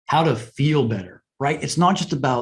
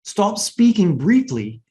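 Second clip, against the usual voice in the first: deliberate; 6 semitones higher, 4 dB louder, slower than usual. Shown as a demonstration. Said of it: "pausing for the audience".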